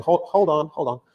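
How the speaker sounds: put-on light American accent, quick "hold on" to the caller. Spitzer's wife on the phone to a London caller, mild American accent. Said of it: "I'm not gonna do any more American accents".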